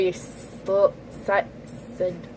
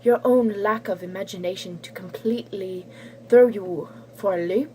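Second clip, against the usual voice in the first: lightly put-on British accent; a slipping, uncertain British accent; strange British accent. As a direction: read it in a wobbly British accent. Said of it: "giving her a strange British accent".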